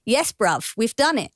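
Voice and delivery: lightly put-on Cockney accent. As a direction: say it like an East London local. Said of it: "delighted that Cockney".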